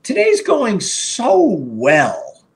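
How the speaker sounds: high, slow, pleased with himself; a jinxing brag to himself, drawn out; smug self-talk. Retold or imitated. Streamer mocks his own smug morning boast, high and slow. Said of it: "when you say to yourself".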